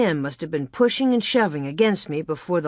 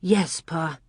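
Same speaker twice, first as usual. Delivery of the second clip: sober promise. Acted. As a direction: promise it seriously, without excitement. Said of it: "Laura promised soberly".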